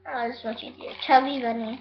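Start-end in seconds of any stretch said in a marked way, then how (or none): 1.1-1.8 cheeks stuffed full. Real, not acted. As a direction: mouth full of marshmallows. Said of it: "I think I do six of this".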